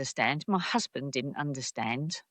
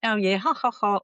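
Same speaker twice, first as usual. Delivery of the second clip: mock dismissive laugh; 4 semitones higher than usual. Manager laughs off her point.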